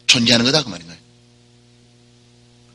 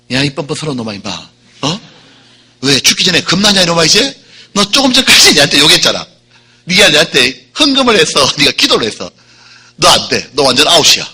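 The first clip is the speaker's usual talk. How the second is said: mock scolding Jesus; 3 dB louder than usual. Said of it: "내가 예수님은 그럴 것 같아요".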